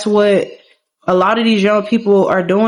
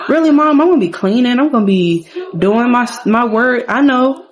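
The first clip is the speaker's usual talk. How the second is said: put-on higher-pitched, mildly exasperated teen protest; protesting daughter; 5 semitones higher than usual. Daughter answering mom's lecture about studying, mildly exasperated. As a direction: lightly act out a daughter objecting.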